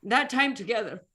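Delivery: reliving happy hostel days, voice lifting; emotional. Real, not acted. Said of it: "Sorry, I get emotional".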